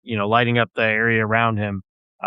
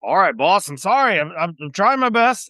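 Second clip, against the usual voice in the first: higher, hurried, apologetic sailor; flustered deckhand; 7 semitones higher than usual. Acted. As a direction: grovel a little to the boss. Crewman apologizes to captain.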